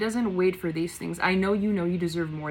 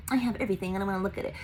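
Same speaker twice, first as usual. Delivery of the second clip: mock entitled; 3 dB quieter, much faster than usual. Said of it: "it's not entitled as if".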